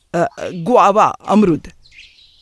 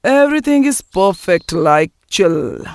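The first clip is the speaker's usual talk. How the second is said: affected cool; much slower than usual. Acted. Nephew showing off English to aunt, affected cool. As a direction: draw it out to sound cool.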